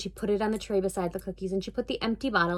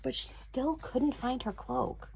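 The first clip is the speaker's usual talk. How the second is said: whispering; 2 semitones higher, 8 dB quieter, slower than usual. A narrator's reading. Suspense in the story.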